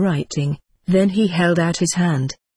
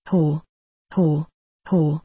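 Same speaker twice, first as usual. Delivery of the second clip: roaring laugh; slower than usual. A narrator's reading. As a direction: bellow out a belly laugh. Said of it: "he roared".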